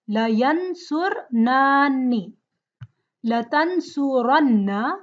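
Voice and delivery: la tansuranna spelled out slowly, one form at a time; slow drill. Shown as a demonstration. Teacher drills the verb table slowly. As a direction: recite the table forms slowly for students to repeat. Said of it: "the table format for the verbs".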